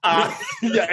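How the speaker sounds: ordinary talk, nothing marked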